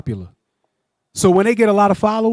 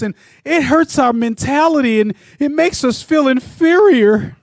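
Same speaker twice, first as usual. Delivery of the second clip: whiny complainer voice; 2 semitones higher than usual. Retold or imitated. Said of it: "That's the voice that I heard as I read his post".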